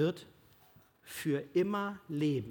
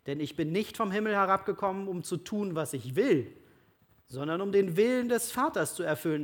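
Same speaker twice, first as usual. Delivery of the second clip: raised, measured Gospel reading; scripture reading; 3 semitones higher than usual. Acted. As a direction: proclaim it like a preacher at the lectern. Reads Gospel passage aloud.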